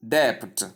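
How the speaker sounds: "debt" with the B pronounced; wrong debt, B sounded. Shown as a demonstration. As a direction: say "debt" as "debpt". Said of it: "pronouncing out the B".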